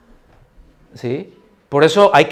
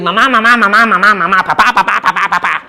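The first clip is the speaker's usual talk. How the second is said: put-on child calling out; 3 semitones higher, 4 dB louder than usual. Child yelling for parents at visit.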